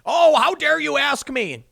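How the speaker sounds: high, wailing mock outrage; hammed-up indignant moan; Joe Biden. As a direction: splutter it slowly as if mortally offended. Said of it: "barfs all over him. He's like".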